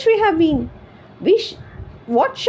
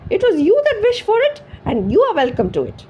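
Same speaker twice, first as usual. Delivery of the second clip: furious screech; 12 semitones higher than usual. A narrator's reading. Wife screeching at her husband over the sausage. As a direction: tear into him, outraged. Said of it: "she screeched".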